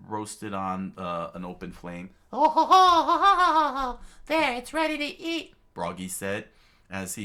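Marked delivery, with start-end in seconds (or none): 2.3-5.5 jolly giant laugh. Acted. Giant laughs serving meat.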